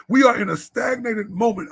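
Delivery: repeated, shouted to the men. Real, not acted. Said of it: "Listen, we are in a stagnated moment".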